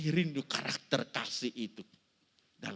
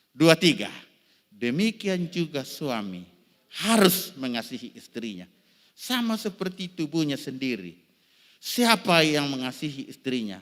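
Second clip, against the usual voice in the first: loud group reading; 10 dB louder than usual. Acted. Congregation reads verse aloud.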